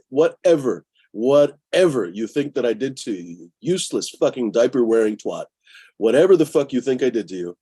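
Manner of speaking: heated, emphatic cursing; exasperated, heated tirade; angry rant. Real, not acted. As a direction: rant indignantly, punching key words. Ranting at people who reported him.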